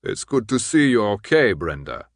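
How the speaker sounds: put-on gruff older man, keeping his distance; gruff, distant man. A narrator's reading. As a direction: greet her gruffly, without any fuss. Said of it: "the gruffly distant man named Hans".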